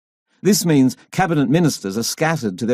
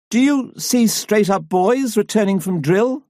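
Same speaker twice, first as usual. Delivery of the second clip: put-on higher excited cry of an old woman; excited old lady; 8 semitones higher than usual. A narrator's reading. Elderly lady challenges the politician, high excited cry. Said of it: "an elderly lady cries excitedly".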